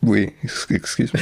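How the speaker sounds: hiccup interrupts the words. Real, not acted. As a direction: catch a hiccup, then excuse yourself. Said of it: "I got the hiccups".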